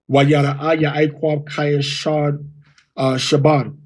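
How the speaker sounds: slow, halting mock reading by a child; lightly voiced kids stumbling through; imitating his sons' reading. Father imitating how his sons misread, slow and halting. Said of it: "my sons are gonna say".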